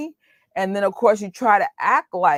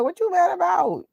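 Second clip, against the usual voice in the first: Harlem street voice; 13 semitones higher than usual. Retold or imitated. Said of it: "I'm like".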